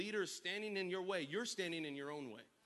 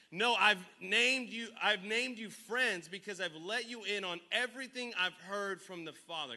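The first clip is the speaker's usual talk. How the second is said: preaching; 3 semitones higher, 5 dB louder than usual. Acted. Pastor reads Jesus' words preaching.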